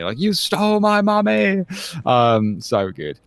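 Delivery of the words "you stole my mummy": much higher, hammed-up outraged cry; mock furious Frasier. Host imitating Frasier losing it, hammed-up outraged cry. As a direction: go off like a man accused of theft, in jest. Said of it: "when he's kind of jumping on it".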